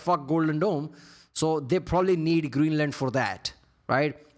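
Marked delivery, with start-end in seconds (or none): none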